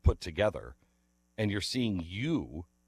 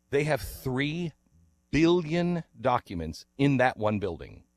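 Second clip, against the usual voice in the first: ordinary talk, nothing marked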